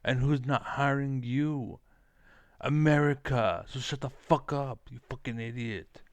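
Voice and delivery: shouting down the complainers; angry rant. Real, not acted. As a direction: hammer each word in outrage.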